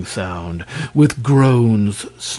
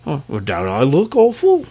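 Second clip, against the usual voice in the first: proud; 4 semitones higher than usual. Acted. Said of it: "inquired the dragon proudly".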